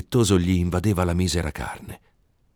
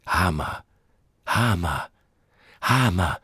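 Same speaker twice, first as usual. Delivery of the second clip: echo voice; slower than usual. A narrator's reading. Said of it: "rispose l'eco".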